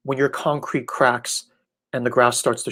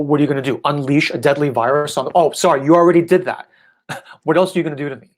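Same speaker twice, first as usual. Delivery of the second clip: mock taunt; 2 semitones higher, 4 dB louder than usual. Taunting the pandemic.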